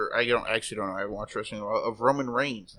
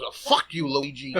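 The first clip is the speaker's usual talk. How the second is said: mock outburst, pitched up a little; mildly raised, mock-aggressive quote; loud retold curse. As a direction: imitate an actor blurting a curse. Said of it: "he really loudly goes".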